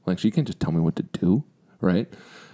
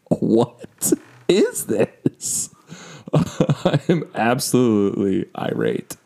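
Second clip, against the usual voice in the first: mock rage; 4 semitones higher, 3 dB louder, much slower than usual. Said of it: "am in a full-on rage".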